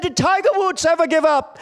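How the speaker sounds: high, rousing coach's yell. Retold or imitated. Coach in a timeout huddle, high rallying yell. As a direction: fire up the losing team with a shout. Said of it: "He yelled, he yelled".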